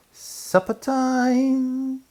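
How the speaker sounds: high, slow firm mother's call; mother calling children to supper. Acted. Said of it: "called Missus Toadflax, firmly".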